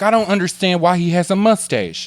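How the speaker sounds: high comic character, baffled; put-on character voice. Character baffled by a movie star's mustache, put-on voice. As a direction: puzzle over it in a silly high voice. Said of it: "you can't do this voice".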